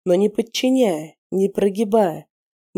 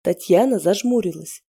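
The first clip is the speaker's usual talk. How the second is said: plain reading voice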